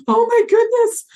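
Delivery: a terrified scream about blowing up; panicked anxious. Shown as a demonstration. Soldier panicking that the atomic fuel will explode, shrieking. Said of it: "If it was anxious".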